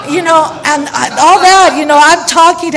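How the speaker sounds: loud, high, laughing speech; laughing while talking. Real, not acted. Speaker recalling chatter in meeting, loud laughing voice. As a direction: talk on through your own laughter. Telling story through her laughter.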